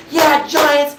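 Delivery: high, loud grandpa-style cheer; old man cheer. Retold or imitated. Cheering the Giants to spite a Patriots-loving roommate, like a grandpa. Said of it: "You sound like my grandpa".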